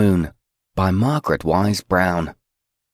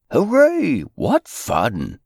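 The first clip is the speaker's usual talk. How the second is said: high joyful hooray; excited cheer; 8 semitones higher, slower than usual. Acted. Characters cheering in the shoe.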